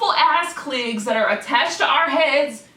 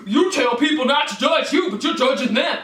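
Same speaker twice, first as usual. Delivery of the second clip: mildly whiny mock critic voice; 4 semitones higher, 4 dB louder than usual. Imitating her critics, lightly mocking and louder. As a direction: parrot the haters. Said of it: "people get so mad when I talk like this".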